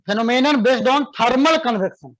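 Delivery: slow, clear dictation for students to write. Shown as a demonstration. Teacher dictating a definition to students, slow and clear. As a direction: spell it out slowly so they can copy. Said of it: "तो लिखो".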